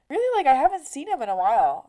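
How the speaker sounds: high, fast, nosy mock-surprise; creepy neighbor voice. Shirtless neighbor probing about her ex, high prying voice. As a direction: play the neighbor as prying and faux-innocent.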